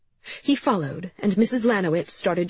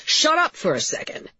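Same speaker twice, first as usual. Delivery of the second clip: higher, forceful interruption; said loudly; 11 semitones higher than usual. A narrator's reading. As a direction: raise your voice to silence her. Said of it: "Cap said loudly".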